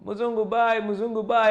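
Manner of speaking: high, singsong mimic of children calling; kids calling out. Kids shouting at passing foreigners, singsong call. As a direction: chant it like excited village kids.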